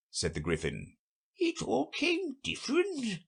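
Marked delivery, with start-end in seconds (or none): 1.4-3.2 high, slow musing; turning the idea over; thoughtful. A narrator's reading. Mock Turtle muses on Alice's strange recitation, slowly thoughtful. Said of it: "repeated thoughtfully".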